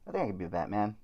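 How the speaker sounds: muffled behind a mask; through a face mask. Real, not acted. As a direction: talk through a costume mask. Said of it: "through this mask".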